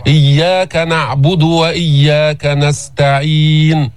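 slow, measured tajweed chant; slow melodic Quran recitation. Shown as a demonstration. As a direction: recite slowly, stretching the vowels.

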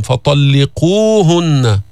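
فطلقوهن slow, with the قو lengthened; natural madd. Shown as a demonstration. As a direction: stretch the oo after ق in فطلقوهن. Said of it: "في مد طبيعي بالواو الساكنة". (فطلقوهن بمد الواو مداً طبيعياً)

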